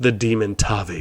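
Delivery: very low, deep, soft-spoken delivery. Counting down a numbered list, saying the entry's name in a deep voice. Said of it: "Gotta say it in a deep voice like that, just sounds right".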